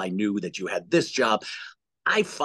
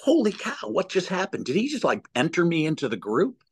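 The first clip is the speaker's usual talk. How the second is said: a mild, pitched-up holy cow; wide-eyed at being pulled in; amazed; 6 semitones higher than usual. Retold or imitated. Son pulled into dad's group, mildly amazed. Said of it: "you feel like".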